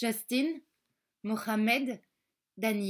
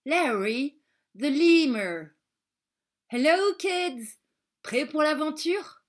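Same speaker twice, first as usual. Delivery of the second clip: louder, higher lemur mascot greeting; an exaggerated lemur greeting for the kids; 3 semitones higher, 5 dB louder than usual. A puppet lemur greeting the class, loud and high.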